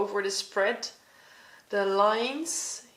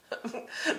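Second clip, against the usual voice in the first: real short, soft laugh; 3 semitones higher, 6 dB quieter than usual. Real, not acted. Laughing at her own angry drawing, a real soft chuckle. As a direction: let a small amused laugh slip out. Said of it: "I'm laughing because".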